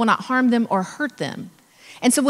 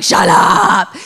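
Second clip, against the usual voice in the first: loud, firm Shut up; loud shush; 3 semitones lower, 9 dB louder than usual. Retold or imitated. Insider silencing the golf cart question, loud and firm. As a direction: cut them off loudly. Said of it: "You're like".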